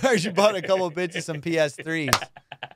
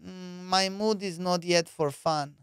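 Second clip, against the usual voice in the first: put-on slow, flat foreign accent; 2 semitones higher, slower than usual. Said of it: "she goes".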